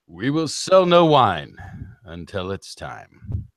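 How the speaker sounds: slow, grave spokesman delivery; theatrical ad voice. Retold or imitated. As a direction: sell it like a solemn TV pitchman. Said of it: "the most sincerest of theatrical voices".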